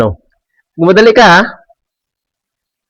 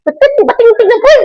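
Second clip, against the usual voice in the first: high, eager yell for break; excited shout. Acted. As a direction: call out for break time, thrilled. Calling out for break time. (masiglang sigaw para sa break time)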